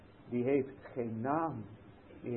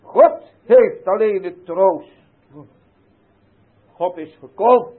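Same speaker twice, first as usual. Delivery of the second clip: full-force preaching; 4 semitones higher, 15 dB louder than usual. Acted. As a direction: thunder it out over the congregation. Preaching from the pulpit. (luid en langzaam preken)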